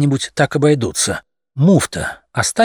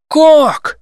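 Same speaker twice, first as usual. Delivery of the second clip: very high, louder cry; outraged roar; 6 dB louder than usual. A narrator's reading. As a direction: roar in disbelief as young cats. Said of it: "взревели юные коты".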